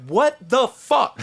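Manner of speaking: high, loud, slow disbelief; acted bewilderment. Storyteller reacting to strangers' greetings, baffled. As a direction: stretch it out, totally baffled.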